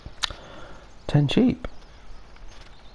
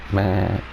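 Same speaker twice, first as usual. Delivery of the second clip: sheep impression. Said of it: "I'll stop doing my sheep impression".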